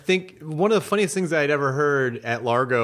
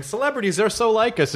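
mock gushing headline; 7 semitones higher than usual.

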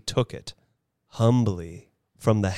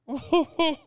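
feeble laugh. A narrator's reading. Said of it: "Hop Frog also laughed".

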